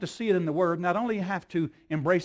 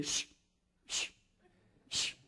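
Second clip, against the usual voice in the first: imitating toddler shush; 12 dB quieter than usual. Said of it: "she, she".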